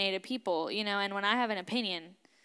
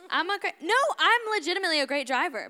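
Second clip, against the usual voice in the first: louder, much higher, insisting she means it; getting heated over her driving; worked up; 7 semitones higher, 4 dB louder, faster than usual. Real, not acted. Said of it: "I'm getting a little worked up about that".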